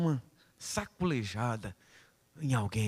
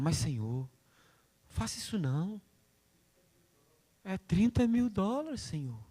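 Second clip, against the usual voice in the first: mock pleading with God, higher; 4 semitones higher than usual. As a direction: beg the Lord half-whining. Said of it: "a gente não fala assim, fala".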